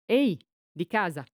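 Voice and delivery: understated narrated call to the house; a mild hailing shout; stentorian call. A narrator's reading. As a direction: call out "anyone home?" with mild force. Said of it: "gridò con voce stentorea".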